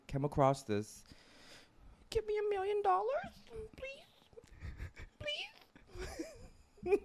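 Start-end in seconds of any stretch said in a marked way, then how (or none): 2.1-7.0 high begging, fading to a whisper; pleading. Pretend. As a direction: beg sweetly, then whisper. Begging LeBron for money.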